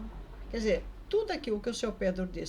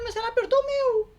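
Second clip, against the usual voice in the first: indignant retort; 13 semitones higher, 7 dB louder than usual. Retold or imitated. Indignant retort to seu Pedro.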